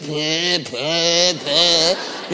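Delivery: mouth-noise babble for nervous chatter; imitated babbling. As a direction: mimic someone babbling on in puffs of nonsense. Mimics salesman filling the silence.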